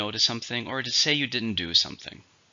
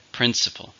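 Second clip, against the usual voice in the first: "Principle" with the stress on its first syllable; 2 semitones higher than usual. Shown as a demonstration. Teacher modelling word stress for learners, "Principle" stressed on the first syllable. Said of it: "stresses on the first".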